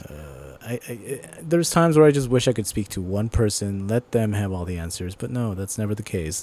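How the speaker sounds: quiet, weary frustration; frustrated sigh. Real, not acted. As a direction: mutter it, worn out. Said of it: "It's frustrating".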